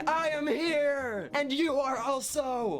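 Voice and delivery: high, slow, excited scream. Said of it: "internally we're screaming".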